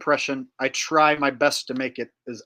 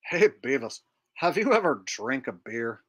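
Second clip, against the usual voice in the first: lightly voiced dim cartoon teen; a hint of a dopey cartoon slacker; Butthead. Asking his buddy about beer, Butthead impression. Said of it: "a Beavis and Butthead impression".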